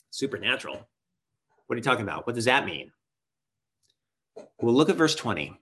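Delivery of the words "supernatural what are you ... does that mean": puzzled listener. Acted.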